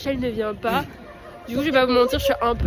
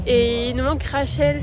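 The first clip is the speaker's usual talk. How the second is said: stuffy blocked nose voice. Real, not acted. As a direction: speak through a blocked nose. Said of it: "j'ai le nez bouché".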